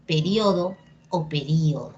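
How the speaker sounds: peRIOdo, then peRÍodo; two accepted stresses. Shown as a demonstration. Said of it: "depende de ti cómo lo quieras decir".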